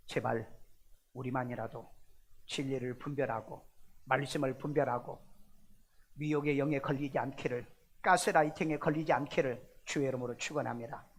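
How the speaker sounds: low, hushed pastoral appeal; earnest plea. Real, not acted. Preacher blessing the congregation against deception, pleading low.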